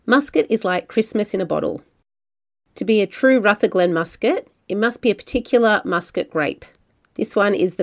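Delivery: measured, scripted travel-show read; podcast narration. A narrator's reading. Host introducing a wine region to listeners, scripted narration.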